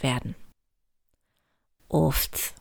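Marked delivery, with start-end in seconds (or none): 1.9-2.5 leises, gequältes Uff; müdes Stöhnen. A narrator's reading. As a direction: ein kurzes Aufstöhnen wie unter Last. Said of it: "stöhnte Hugo". (der Hase stöhnt leise vor der vielen Arbeit)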